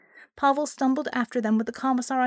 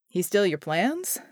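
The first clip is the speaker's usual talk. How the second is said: dry. Acted. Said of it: "John asked dryly".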